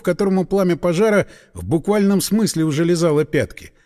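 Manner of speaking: usual speaking voice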